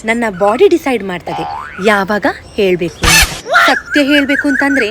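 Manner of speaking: lightly voiced fussy, self-adoring girl; touchy girl-gang diva showing off to friends; pampered diva. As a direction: play the over-sensitive princess, all airs. Sketch of the sensitive personality.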